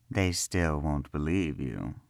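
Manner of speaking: a calm, amused assurance, unhurried; smiling. Acted. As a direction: say it with a knowing smile. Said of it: "Karel smiled".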